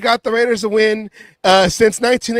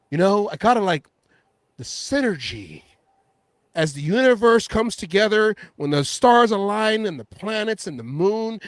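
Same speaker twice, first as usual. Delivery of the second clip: mock rambling quarterback.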